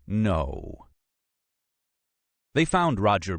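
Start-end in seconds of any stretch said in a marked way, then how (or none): 0.1-0.9 dismayed little groan; a mild groan of dread. A narrator's reading. Archaeologist dreads the coming meeting, mildly groaning. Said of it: "groaned Nora".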